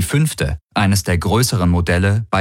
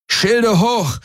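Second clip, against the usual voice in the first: much higher, urgent shouted command; shouted order; 14 semitones higher than usual. A narrator's reading. Pilot shouts to crew under fire, urgent yell. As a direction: bark the order over the battle. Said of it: "brüllte Garland".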